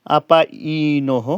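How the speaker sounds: আপাইনহ sounded out very slowly, the ending breathed; drawn-out syllables. Shown as a demonstration. Teacher demonstrates the visarga in আপাইনহ, very slowly. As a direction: draw out আপাইনহ to show the visarga. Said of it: "আগম".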